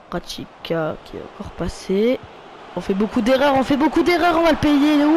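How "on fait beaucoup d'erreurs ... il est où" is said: higher, louder exasperated repeat; frustrated repeat. Real, not acted. Gamer venting at his own team's mistakes, exasperated and higher. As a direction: raise it, fed up with the errors.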